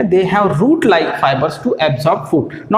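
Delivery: very slow, spaced words; slow dictation. Shown as a demonstration. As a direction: dictate it for the notebook. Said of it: "इसलिए उनको कहा गया".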